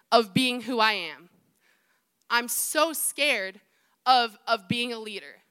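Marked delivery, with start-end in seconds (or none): 2.3-3.6 very slow, drawn-out confession; slow emphasis. Real, not acted. Preacher confessing fear to the congregation, very slow. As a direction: linger on every word.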